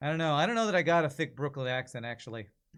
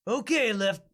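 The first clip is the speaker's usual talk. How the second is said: sheriff voice; 7 semitones higher, 5 dB louder, slower than usual. Acted. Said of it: "this feels like more like a sheriff".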